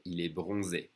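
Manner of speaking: bronzé ending in a clear "ay"; pronounced accented E. Shown as a demonstration. Teacher reminding learners about the accent, pronounced E. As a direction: sound the final é of bronzé. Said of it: "you have to pronounce it E".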